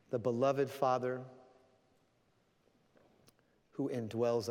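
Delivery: measured prayer with long pauses; closing prayer. Real, not acted. Preacher praying for the congregation, measured closing prayer.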